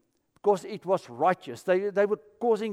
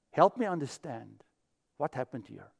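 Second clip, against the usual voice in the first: calm question; 6 semitones lower, 5 dB quieter than usual. Shown as a demonstration. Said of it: "maybe you should ask a question".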